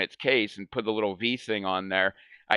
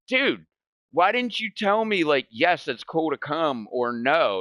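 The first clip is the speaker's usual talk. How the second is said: exasperated complaint; 4 semitones higher than usual. Retold or imitated. Complaining to dad in blind.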